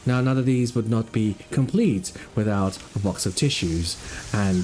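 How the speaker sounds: slow, hushed wildlife narrator; nature documentary. Acted.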